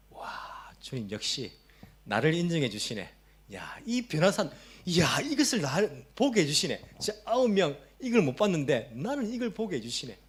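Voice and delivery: mildly hammed-up proud wonder; awed delight. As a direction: marvel at being singled out, as if imagining it. Imagining being among the chosen three.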